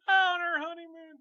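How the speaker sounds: words squeezed out through laughter; laughing. Real, not acted. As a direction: laugh while saying it. Laughing at the joke.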